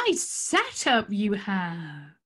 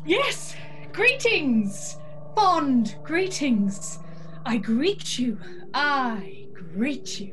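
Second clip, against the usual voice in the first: drawn-out, sing-song mystic greeting; slower than usual. Acted. Tarot reader greeting her client in a theatrical drawn-out intonation. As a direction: intone it like a grand fortune teller. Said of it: "You sounded in pain".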